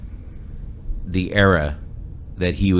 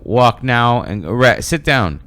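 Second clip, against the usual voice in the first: stopwatch overseer; 5 semitones higher, 5 dB louder, slower than usual. Acted. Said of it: "had somebody following the laborer".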